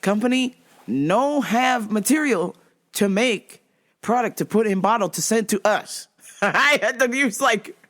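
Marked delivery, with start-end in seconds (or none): 0.0-6.1 halting broken English in a hammed-up Asian accent; terrible Asian accent. Clerk explaining to customer, terrible Asian accent. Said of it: "the most terrible Asian accent".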